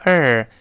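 "er" with a curled-tongue r; r-coloured ending. Shown as a demonstration. Teacher breaking order into parts, r-coloured ending. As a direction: isolate "er" as the second syllable. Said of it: "后面是er".

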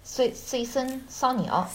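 slow careful repeat of 水笋烧肉 in Shanghainese; Shanghainese pronunciation. Shown as a demonstration. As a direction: learner copies 水笋烧肉 in Shanghai dialect.

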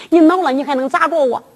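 quick challenge at a firmer volume; brisk acted comeback, pitched normally; open defiance. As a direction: dare the husband outright. Wife repeats the challenge more openly.

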